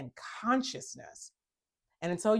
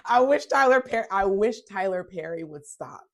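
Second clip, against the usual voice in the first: exasperated outburst; 6 dB louder than usual. Real, not acted. Exasperated plea to Tyler Perry.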